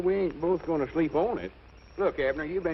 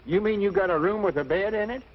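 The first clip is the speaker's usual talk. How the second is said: high, louder eager disbelief; excited; 7 semitones higher, 5 dB louder than usual. Acted. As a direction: jump at the offer. Excited at offered bed.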